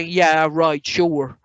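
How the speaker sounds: lightly sarcastic agreement. Shown as a demonstration. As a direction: say it as if you don't believe a word. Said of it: "we'll say things like sarcasm".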